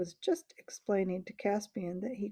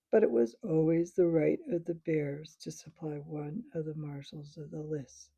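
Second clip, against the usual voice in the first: bear voice; 3 semitones lower than usual. Acted. The bear speaks.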